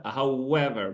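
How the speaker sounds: however said how-EV-er, the second syllable stressed; correct stress on EV. Shown as a demonstration. Teacher gives the right stress on however. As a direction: however with the weight on EV. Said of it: "خصك تضغط على المقطع الصوتي الثاني".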